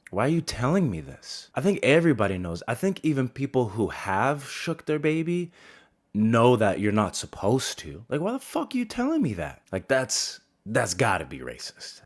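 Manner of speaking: rising outrage at being told the obvious; exasperated rant. Real, not acted. Ranting about the nurse's warning.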